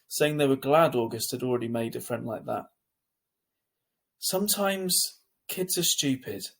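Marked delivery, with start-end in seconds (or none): 4.2-6.5 slow, soft and comforting; softly. A narrator's reading. Sister comforting her hurt brother, slow and soft. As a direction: gently soothe a hurt brother, slowly. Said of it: "I said softly".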